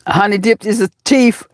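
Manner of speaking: "thief" said as "teef"; borrowed catchphrase pronunciation. Retold or imitated. Accusing Honey Dip of taking the crown, "thief" pronounced "teef". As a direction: jokingly say "thief" with T for TH. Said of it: "How you say, um, Red".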